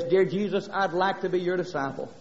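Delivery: softly retold prayer to Jesus; hushed recalled plea. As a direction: speak low-key and soft, as if praying. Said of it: "looked up to heaven and said something like this".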